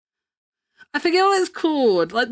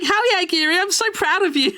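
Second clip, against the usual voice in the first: excited cheer; 6 semitones higher than usual. Retold or imitated. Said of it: "I was like".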